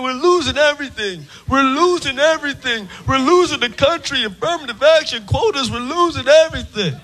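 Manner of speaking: imitating whiny news complainers; hammed-up repeated griping; mock complaining. Comic imitates white people on news, mock complaint. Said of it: "It's always on the news complaining".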